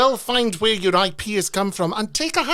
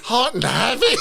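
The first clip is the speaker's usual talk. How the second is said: laughing while talking; 4 semitones higher, 5 dB louder than usual. Real, not acted. Laughing joke.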